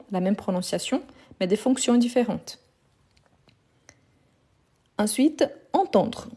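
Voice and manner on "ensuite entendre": slow teacher pace. Shown as a demonstration.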